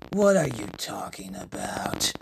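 Iridis. Acted. Voices Iridis in the story.

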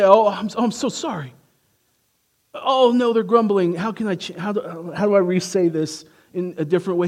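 a hint of flustered apology; mock apologetic fretting. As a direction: play a nervous people-pleaser. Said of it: "He doesn't say".

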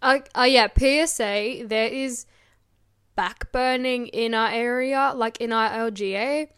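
rough, smoke-irritated voice; chesty cough. Real, not acted. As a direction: push through a cough. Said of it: "I can't stop coughing".

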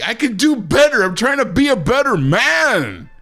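yelling into the mic; clipping distorted mic. Real, not acted. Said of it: "stop yelling into the microphone".

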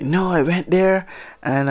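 put-on Jamaican accent. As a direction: start a Jamaican accent then drop it. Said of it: "I'm not gonna try to do the accent".

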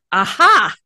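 hammed-up sleuth cracking the case; detective eureka. Student acting the detective to the patient, triumphant. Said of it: "acting like he was a detective".

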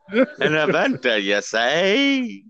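lightly voiced suspicious old coot; old prospector. Old man NPC questions inventor.

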